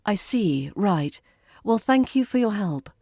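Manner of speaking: icy, polite thanks with a clipped right; cool civility, firm but polite. Shown as a demonstration. Learner giving a firm, icy-polite thank-you to staff. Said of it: "a firm but polite".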